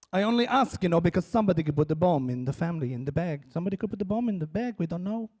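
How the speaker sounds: a hint of Israeli-accented explaining; lightly voiced Israeli interrogator. El Al screener justifying her questions, mildly insinuating. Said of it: "with that interrogation".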